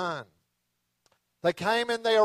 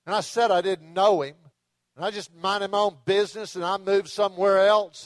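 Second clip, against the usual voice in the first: Peter, cornered, blows up at his accusers; angry Peter cussing; 3 semitones higher than usual. Retold or imitated. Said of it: "He began to cuss".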